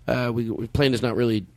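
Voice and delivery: calm captain easing bad news; pilot announcement voice. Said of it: "eighty percent close to what he said".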